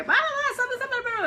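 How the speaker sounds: put-on high, whining child's voice; whiny kids. Mum imitating her kids complaining, high and whiny. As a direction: whine like a kid running in upset. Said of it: "they come running in and they go".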